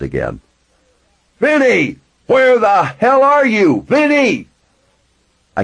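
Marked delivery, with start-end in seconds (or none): 1.4-4.5 loud, high frantic calling; shouting. A narrator's reading. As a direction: bellow for your friend, furious and scared. Trapped man shouting for his friend.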